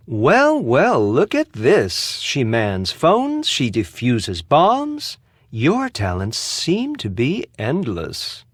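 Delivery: slow, drawn-out mock admiration; sarcastic praise. Suspect taunts the detective about her talents, sarcastic. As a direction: draw each feat out slowly, needling. Acted mockery of Nancy's talents.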